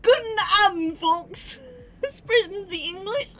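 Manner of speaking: loud laughing mock Southern German; laughing imitation. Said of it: "Southern accent on fucking German".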